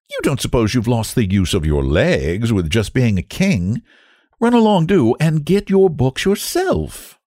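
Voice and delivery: brisk nanny, jumping up high; high-pitched, fussing nursemaid; scolding nurse. Acted. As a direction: shoo the child along. Nurse scolds little king.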